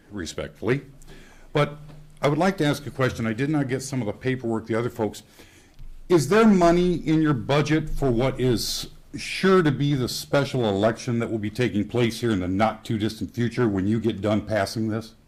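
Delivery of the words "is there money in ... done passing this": tense, quivering, trying to stay polite; shaking with anger. Real, not acted. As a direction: voice trembling with held-back anger. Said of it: "I'm so mad I'm shaking".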